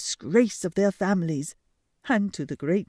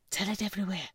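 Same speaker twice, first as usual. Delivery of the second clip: shrieking bats; 2 semitones lower, 3 dB quieter, faster than usual. Acted. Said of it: "shrieked the bats".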